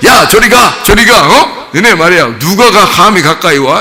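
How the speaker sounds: high mock shout; hammed-up, domineering scolding; swaggering bossiness. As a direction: imitate a puffed-up disciple chasing children off. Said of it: "엄청나게 자기 힘 좀 과시한 거죠".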